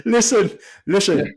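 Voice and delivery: a hint of the pundit's catchphrase. Friend quoting the pundit's favourite word. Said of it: "that's what he says".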